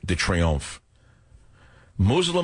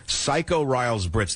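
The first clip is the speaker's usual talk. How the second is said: headline read; 3 semitones higher, slower than usual. Shown as a demonstration. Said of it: "That was my headline".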